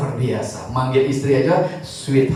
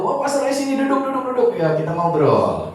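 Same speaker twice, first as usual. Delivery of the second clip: put-on lightly raised, eager old-man welcome; a hint of a cheerful grandpa inviting him in; grandpa's greeting; 7 semitones higher than usual. Grandpa happily seats the visiting pastor, lightly voiced cheer.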